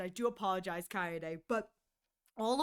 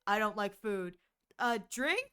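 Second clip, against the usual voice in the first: lower, flat brush-offs; straight-faced, no emotion; deadpan answers to a suitor; deadpan refusals; 4 semitones lower than usual. Pretend.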